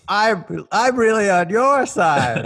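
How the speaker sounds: high, slow cartoon chef voice; pleading chef. Chef pledging loyalty to the party, high slow character voice. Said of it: "can the chef just be like".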